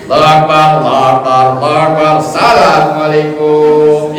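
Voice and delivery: takbirs rattled off back to back; rushed prayer. Acted. Worshipper speeding through prayer, mock rushed chant. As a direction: race through the prayer to the closing salam. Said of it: "sholatnya kebut".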